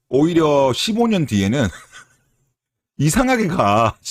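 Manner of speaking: slow, high, laughing in disbelief. Real, not acted. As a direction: laugh at how absurd it is. Laughing at the odd reversal.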